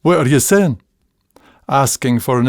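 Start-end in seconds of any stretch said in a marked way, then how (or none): 0.0-0.8 Scots question. Shown as a demonstration. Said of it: "We'll say".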